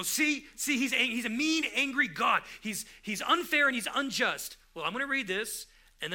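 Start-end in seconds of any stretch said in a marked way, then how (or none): 0.0-4.6 mock accusation. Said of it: "we can read that and go".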